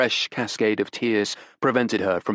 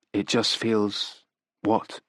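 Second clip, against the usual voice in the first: gentle; much slower than usual. Acted. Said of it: "asked Otti gently".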